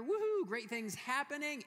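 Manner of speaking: high, loud whoop of celebration; excited cheer. Real, not acted. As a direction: let out a joyful woohoo. Cheering news of a coming birth.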